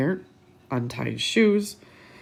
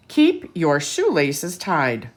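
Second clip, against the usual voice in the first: slow, louder safety-tip delivery; a mild stern officer; lecturing officer; 6 dB louder, much slower than usual. Acted. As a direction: spell out the rule to the kids. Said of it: "Buckle gives safety tip".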